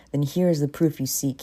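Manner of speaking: loud ghostly proclamation; bellowing ghost. Acted. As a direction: boom it out like an angry spirit. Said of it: "he bellows".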